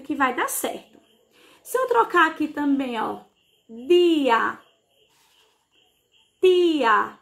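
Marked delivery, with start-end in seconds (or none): 3.7-4.6 "dia" with a clearly voiced D; isolated "dia", sonorous opening D; voiced D sound. Shown as a demonstration. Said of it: "ele é mais sonoro". 6.4-7.2 "tia" with a crisp voiceless T; isolated "tia", closed opening T; closed T sound. Shown as a demonstration. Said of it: "o som dela é mais fechado".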